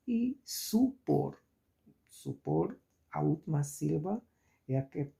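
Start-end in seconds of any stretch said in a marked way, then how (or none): 0.4-2.8 "supor" with weight on final por; stress on final syllable. Shown as a demonstration. Teacher showing students the last syllable is strongest, stress on final syllable. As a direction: lean on por at the end of "supor". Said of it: "a que pronunciamos mais forte".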